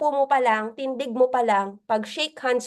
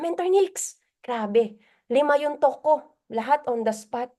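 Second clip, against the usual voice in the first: bragging member. Retold or imitated. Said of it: "I-ano mo pa si Mentor Nika".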